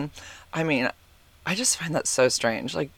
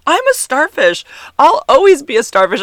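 mom proudly announcing it, hammed up; imitating mom; 11 semitones higher, 9 dB louder than usual. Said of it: "She goes".

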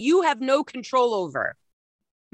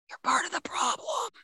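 raised, forceful call-out; emphatic shout; 5 semitones higher, 8 dB quieter than usual. Real, not acted. Preacher scolding listeners, a forceful shout. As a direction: hammer the point home hard. Rebuking audience, heard shout.

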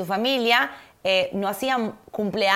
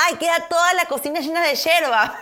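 higher, louder whiny complaint imitating Santi; mocking husband's complaint; 8 semitones higher, 5 dB louder than usual. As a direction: parody his fussy grumble. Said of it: "me dice". (queja exagerada imitando al esposo)

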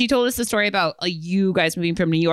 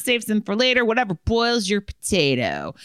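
reading a letter aloud; 6 semitones higher than usual. Acted. Reads out listener's letter.

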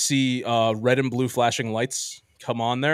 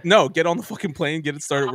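exasperated order; 4 semitones higher than usual. Retold or imitated. Retold angry order to captain.

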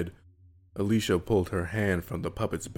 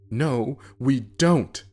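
defiant; 6 semitones higher, 6 dB louder, much slower than usual. Acted. Brother defies dead brother.

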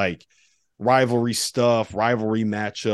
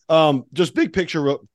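voice cracking; 5 semitones higher, 3 dB louder than usual. Real, not acted. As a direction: voice cracks mid-phrase. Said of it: "My voice just cracked badly".

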